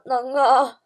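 mildly frightened, hesitant answer; a touch of nervous stutter; scared stammer. Acted. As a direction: answer haltingly, as if pale with fright. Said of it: "结结巴巴说".

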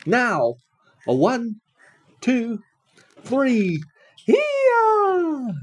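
building count. A narrator's reading. Count before the big heave.

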